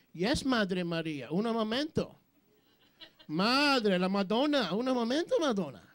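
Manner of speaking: hammed-up Spanish lilt on Madre and momento; mock Latino accent, sung-out Madonna. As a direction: play a mock Spanish son brushing off his mother. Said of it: "No, he didn't say that".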